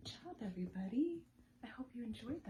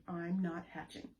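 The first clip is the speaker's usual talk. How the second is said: grumpy; 3 dB louder than usual. Shown as a demonstration. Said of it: "your best voice with some grumpy attitude".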